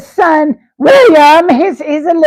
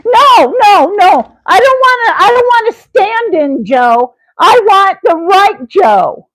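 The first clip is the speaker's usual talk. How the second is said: high protest; 5 semitones higher than usual. Acted. Refusing the stand-in Joe.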